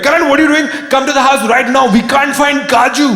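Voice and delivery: high, loud mock panic; a frantic friend calling late at night; panicked friends. Friends phoning Karan at 3 AM about the lost cat, loud and frantic.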